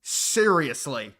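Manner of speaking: loud, drawn-out disbelief; slow, emphatic incredulity; incredulous. Real, not acted. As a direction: stretch each word out in scornful disbelief. Scoffing at the fake outrage.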